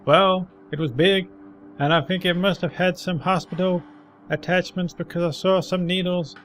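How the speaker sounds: put-on old man voice. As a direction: recall it like a grizzled veteran. Old man describes the troll.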